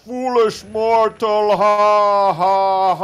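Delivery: slow, loud, high devil voice with evil laugh; booming villain, cackling at the end; dark lord. Pretend. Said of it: "we're gonna R P our characters too".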